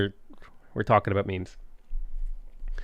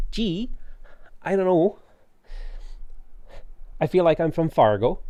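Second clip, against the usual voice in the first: put-on jokey Midwestern Fargo accent, pitched higher; mock Fargo accent; 5 semitones higher than usual. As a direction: ham up a Fargo Minnesota accent, voice up high. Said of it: "Reveal your true American accent".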